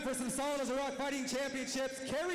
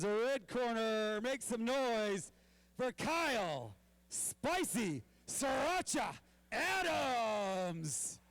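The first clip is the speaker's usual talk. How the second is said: slow, drawn-out boxing intro; ring announcer; 2 semitones lower, slower than usual. Acted.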